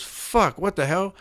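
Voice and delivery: high-pitched retold shock; startled exclamation. Hunter as an ape jumps out, high startled outburst. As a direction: imitate a startled man, pitch jumping way up.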